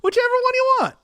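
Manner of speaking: high, loud squeaky offer. Pretend. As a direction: squeak it out playfully. Playful high offer to chat.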